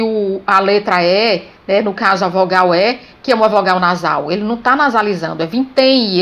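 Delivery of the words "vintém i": VINTÉM I ending on an audible "ee"; final I glide. Shown as a demonstration. Teacher showing M is not nasalising, VINTÉM ending in I. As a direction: let the M of VINTÉM come out as I. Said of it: "ele representa o som I".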